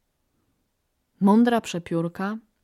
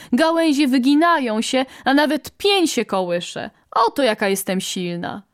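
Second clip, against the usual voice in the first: higher-pitched mild bragging; lightly voiced boastful quail; 5 semitones higher than usual. Rival quail claiming the right to command, lightly voiced bragging. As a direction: outdo the rival with your boasting.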